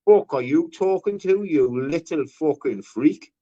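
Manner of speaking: retold challenge. Retelling how he squared up to the other guest, mock aggressive. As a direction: confrontational imitation of himself. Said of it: "I went".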